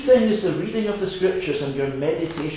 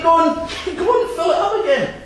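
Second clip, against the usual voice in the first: high, louder, laughing fisherman voice; 13 semitones higher, 4 dB louder than usual. Acted. Fisherman urging the girl, laughing and high. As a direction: egg her on with a chuckle. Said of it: "Says the fisherman".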